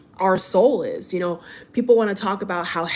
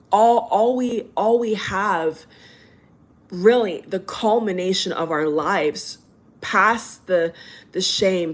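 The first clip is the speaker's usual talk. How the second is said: getting emotional. Real, not acted. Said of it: "if I get emotional".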